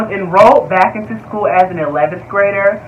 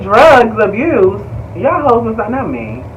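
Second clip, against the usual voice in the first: usual speaking voice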